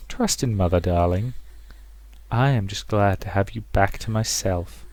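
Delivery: lightly voiced controlling mother; measured, cloying motherly reassurance; possessive mother. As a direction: soothe the daughter possessively.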